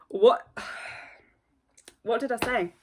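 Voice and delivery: breathy stunned whisper, a sigh in the middle. Real, not acted. Whispering in disbelief at the member on screen. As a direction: hush it, as if in disbelief.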